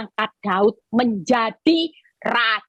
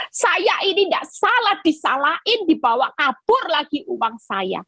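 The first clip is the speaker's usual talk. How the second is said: higher, aggrieved protest of innocence; disappointed complaint; 7 semitones higher than usual. Retold or imitated. Preacher voicing a betrayed church member, hurt complaint. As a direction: voice a wronged friend's hurt. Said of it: "Kecewa dia".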